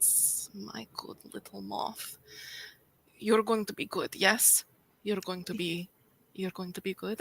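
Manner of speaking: speaking through a chuckle. Narrating a scene, voicing her as she strokes your hair: chuckling into your ear. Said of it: "she kind of chuckles into your ear".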